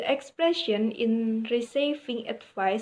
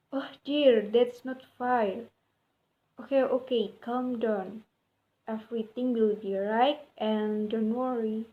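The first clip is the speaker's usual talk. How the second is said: gentle sympathetic tone. Shown as a demonstration. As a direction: comfort a friend with a problem, gently. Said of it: "speak gently and speak in a low tone".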